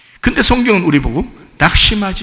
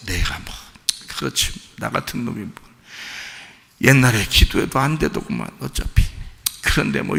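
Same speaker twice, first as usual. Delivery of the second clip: despondent mumble; 3 dB quieter than usual. Retold or imitated. Voicing a despairing believer.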